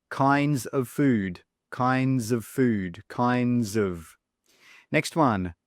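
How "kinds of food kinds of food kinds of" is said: "of" reduced to uhv after kinds, slowly; slow model phrase with a weak "of". Shown as a demonstration. Teacher repeats kinds of food for learners, slow weak of. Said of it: "when do we use weak forms".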